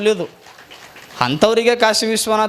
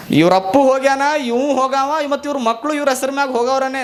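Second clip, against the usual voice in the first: gloating paper's voice; 6 semitones higher than usual. Acted. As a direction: crow it over them. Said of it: "ಅಂತ".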